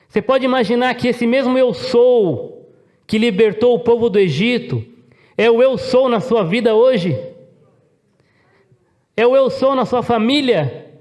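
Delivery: high-pitched, ringing sermon climax; urgent pulpit proclamation, pitched well up; impassioned preaching. Real, not acted. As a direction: preach it with rising fervour, driving each phrase home.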